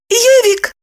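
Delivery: high, loud cooing call. A narrator's reading. Evdokia calls her friend, cooing high. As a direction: coo her friend's pet name sweetly. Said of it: "проворковала она".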